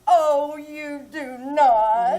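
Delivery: slow, drawn-out coy disbelief; slow teasing disbelief. Acted. Coy flirting with husband.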